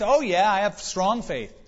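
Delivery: high, eager acted assurance; eager insisting. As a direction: play a desperate man insisting to his rescuer. Stranded man insists on his faith.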